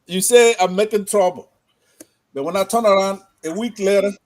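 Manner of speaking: loud, rising declamation; declaiming. Acted. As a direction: proclaim it to the host. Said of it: "I'm gonna just do a little rhyme for you on this".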